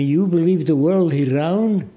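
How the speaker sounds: put-on Arab-accented English question; imitating Arab accent. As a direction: play the skeptical shopkeeper's Arab accent. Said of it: "I'm imitating his voice".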